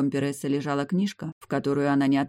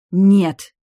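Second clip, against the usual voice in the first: high, much louder hissed refusal; 6 semitones higher, 12 dB louder than usual. A narrator's reading. Demia hissing her refusal at the hero. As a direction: bite the no off hard. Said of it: "шипела Демия".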